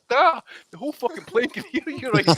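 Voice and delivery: hushed plea. Retold or imitated. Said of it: "And I'm like".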